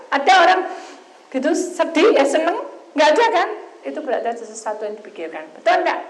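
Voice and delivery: loud, high, urgent sermon push; preaching at full force. Acted. Preacher raising his voice to the church, preaching hard. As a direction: drive the point home to the congregation.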